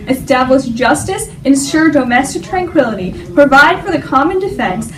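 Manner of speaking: measured, formal recital of a founding text; formal reading. Acted. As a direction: read it like a solemn document. Reads the preamble aloud.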